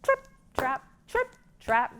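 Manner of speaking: rhythmic trip trap; stomping hoof chant; hoof sounds chant. Shown as a demonstration. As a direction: beat it out like hooves. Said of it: "stomp your feet".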